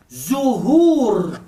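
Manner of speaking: "Zuhur" with voiced z and long second u; zay. Shown as a demonstration. Teacher modelling a word for students, voiced z in "Zuhur". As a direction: buzz the z, stretch the end of "Zuhur". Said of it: "Y ahora zay y sin".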